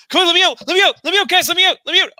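high, loud desperate yelling; locked-in man begging friends to let him out; panicked pleading. Acted. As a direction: pound the door and scream to be freed. Jack banging on locked door.

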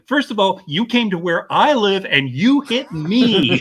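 imitating someone affronted, drawn out at the end; indignant retort. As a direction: act out an offended, accusing comeback. Acting out the iceberg's retort.

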